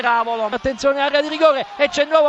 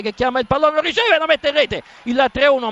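excited goal call; 3 semitones higher, faster than usual. Real, not acted.

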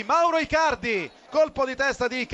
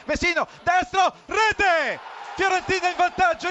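higher, rising goal shout; excited goal call; 4 semitones higher than usual. Real, not acted. Goal call in live commentary. (urlo del gol)

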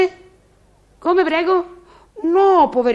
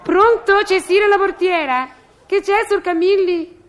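intercom answering voice; 7 semitones higher than usual. Acted. Concierge picks up to tenant Camilli, intercom answering voice. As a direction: pitch it right up for the intercom.

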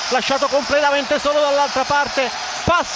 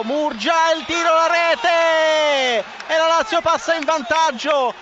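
excited goal call; 4 semitones higher, 3 dB louder, slower than usual. Real, not acted. Goal call in live commentary.

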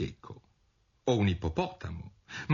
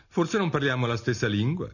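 put-on higher, wondering girl character; higher-pitched thinking aloud; Alice's puzzled thought; 7 semitones higher than usual. A narrator's reading. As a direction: lightly lift the voice for Alice musing. Alice thinking, voiced by narrator.

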